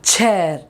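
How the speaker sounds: "chair" leading with a pushed ch; aspirated ch. Shown as a demonstration. Teacher sums up for learners, "chair" with aspirated ch. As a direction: give the first syllable of "chair" pressure. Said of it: "you give pressure on that first letter".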